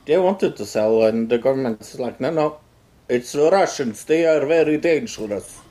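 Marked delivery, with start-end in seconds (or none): 2.2-5.6 lightly done mock Russian accent; a hint of a Russian accent, playful. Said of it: "That's my best Russian accent".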